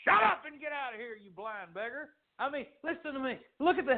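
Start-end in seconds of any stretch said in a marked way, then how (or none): 0.1-2.2 acted dismissive put-down; rebuking. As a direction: turn on the beggar with a sharp rebuke. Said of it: "They were rebuking him".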